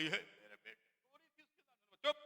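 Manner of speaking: very soft, slow hushing; Mary's soft hush. Retold or imitated. Mary hushes her son on the cross, very soft and slow. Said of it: "Maryam बोली".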